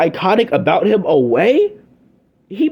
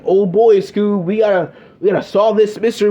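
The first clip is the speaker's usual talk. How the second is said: higher, half-attempted cartoon slacker voice; lightly imitated cartoon sleuth, pitched up; Shaggy; 4 semitones higher than usual. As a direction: toss off a half-hearted cartoon catchphrase. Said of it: "that classic Shaggy voice".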